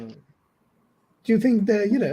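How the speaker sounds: slow, drawn-out gossip in a put-on accent; Gemma's accent. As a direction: lean in and drag out the question in a put-on accent. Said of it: "are you using an accent for Gemma".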